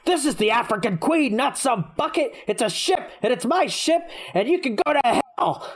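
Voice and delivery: a proud captain snapping into a tirade; unhinged villain. Retold or imitated. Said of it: "the captain's insane".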